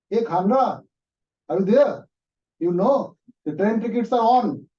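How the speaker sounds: high, loud, eager voice on the phone; pushy caller yelling down a phone line; excited caller. Acted. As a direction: call out to a friend with big news, high and loud. Caller rings during lunch.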